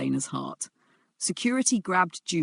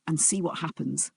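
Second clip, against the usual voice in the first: low threat; 5 dB quieter than usual. Acted. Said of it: "Jaewon's voice dropped even lower".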